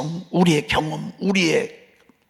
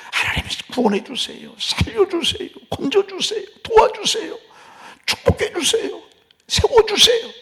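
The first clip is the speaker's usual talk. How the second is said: pleading cry; 13 semitones higher than usual. Acted. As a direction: plead harder with each line. Acting out the hosanna prayer. (점점 높고 크게 간구하듯)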